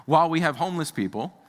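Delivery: impassioned sermon build; getting intense. Real, not acted. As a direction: press the point hard, rising with urgency. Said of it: "I know I'm getting, like, really, intense".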